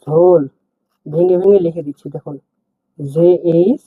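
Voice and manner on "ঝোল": ঝোল said clearly as a model; word demo. Shown as a demonstration. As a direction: repeat ঝোল for learners. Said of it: "বলা হয় ঝোল".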